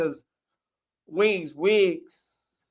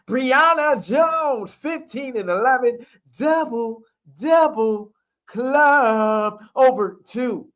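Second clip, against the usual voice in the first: hyped stat call; 4 semitones higher than usual. Acted. Hyping a double-double stat call.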